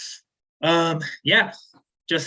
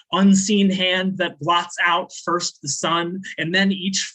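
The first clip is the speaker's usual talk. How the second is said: poem recital; 3 semitones higher than usual. Acted. Poet reading her poem to a live audience, measured spoken-word delivery. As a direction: recite it like a slam poem, each image landing.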